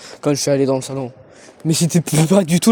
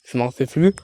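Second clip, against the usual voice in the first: whisper; faster than usual. Real, not acted. Whispered aside.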